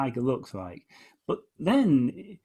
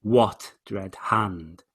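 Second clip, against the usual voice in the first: slow, measured recital; poem reading; much slower than usual. Shown as a demonstration. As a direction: read the stanza with weight, very slowly. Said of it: "I'll read it again".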